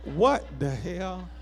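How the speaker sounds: casual, exasperated what the hell; offhand street exclamation; out-of-church what the hell. Shown as a demonstration. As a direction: say it like you're not in church. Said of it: "you can say it like you say it when you ain't in church".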